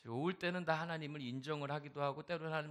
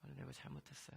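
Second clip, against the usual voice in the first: tearful confession. Retold or imitated. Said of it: "막 울기 시작한 거예요".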